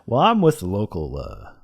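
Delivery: lightly imitated old Southern man; a hint of Southern phone fundraiser; old Southern guy. Scammer claiming police ties, mild old Southern guy. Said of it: "like, Southern guy".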